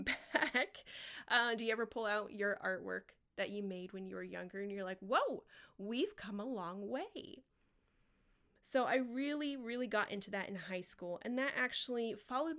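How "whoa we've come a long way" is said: drawn-out, swooping reaction of mild amazement; mock amazement. Artist looking back at younger artwork, playfully amazed. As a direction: stretch it out slowly, playfully taken aback.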